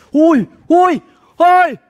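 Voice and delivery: loud, high yells at another driver; shouted angry hey; angry shouts. Retold or imitated. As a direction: yell hey at the car that cut you off. Yelling at driver who sideswiped.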